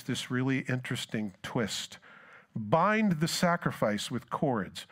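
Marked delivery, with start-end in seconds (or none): 2.5-4.9 slow, weighty scripture line; preacher reading slowly and gravely; solemn reading. Acted. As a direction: draw it out solemnly.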